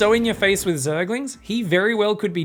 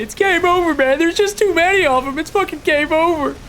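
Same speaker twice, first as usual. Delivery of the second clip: high, loud panicky grunt voice; mock-panicked soldier crying game over; 11 semitones higher, 5 dB louder than usual. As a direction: wail it like a doomed soldier. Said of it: "his soldiers unfortunately say".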